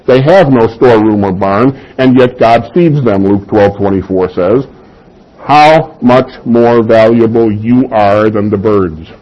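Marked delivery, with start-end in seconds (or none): 5.4-9.1 slow, emphatic falling line on "How much more valuable"; exclamation, not question. Acted. Preacher reading Jesus' words to the congregation, slow exclamation. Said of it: "it's an exclamation".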